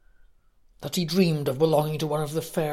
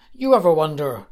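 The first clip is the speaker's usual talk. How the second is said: loud, rough orc wondering aloud; 8 dB louder, faster than usual. Acted. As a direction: bark the question like a brutish orc. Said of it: "began Hracht".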